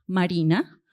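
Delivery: MARINA with a modest rise at the end; changed intonation. Shown as a demonstration. Teacher shows students one intonation of a name, MARINA lightly rising. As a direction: say MARINA evenly, lifting the last syllable. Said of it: "miren que he cambiado, eh, la entonación".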